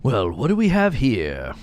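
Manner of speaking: slow, smug sarcastic drawl; sarcastic and smarmy. Acted. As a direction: smirk through it like a bored guard. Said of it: "so sarcastic and smarmy".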